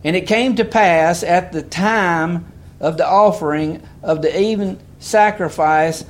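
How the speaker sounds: emphatic preacher reading the Bible aloud; scripture reading. Real, not acted. Reads scripture aloud to congregation.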